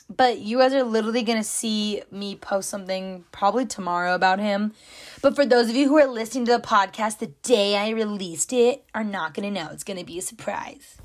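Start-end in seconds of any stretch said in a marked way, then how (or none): 5.2-11.0 mock YouTuber delivery, fading nearly to a whisper at the end; playful put-on vlogger voice; sarcastic YouTuber voice. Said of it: "my sarcastic, funny, like, YouTuber voice".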